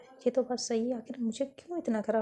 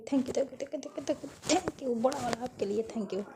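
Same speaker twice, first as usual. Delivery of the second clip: gushing thanks; 3 semitones higher, slower than usual. Acted. Gushing thanks after a kiss.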